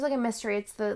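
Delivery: ordinary talk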